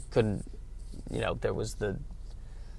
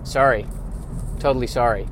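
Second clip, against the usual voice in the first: mock apology; 5 dB louder than usual. Bird pretending nest toppling was an accident, mock sorry. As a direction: toss off a passive-aggressive sorry. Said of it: "Make it seem like".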